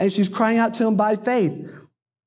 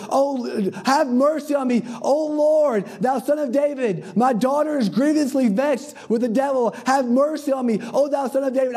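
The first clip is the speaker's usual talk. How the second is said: raised, high-pitched plea; crying out insistently; 6 semitones higher than usual. Retold or imitated. Desperate mother calling to the Lord, crying out insistently. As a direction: act a mother crying out for mercy. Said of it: "the cry begins to get louder".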